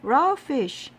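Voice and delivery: high, loud, slow appalled shout; disgusted cry. A narrator's reading. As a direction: spit out the words in disgust. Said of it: "she screamed".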